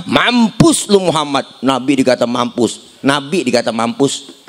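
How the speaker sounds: ordinary delivery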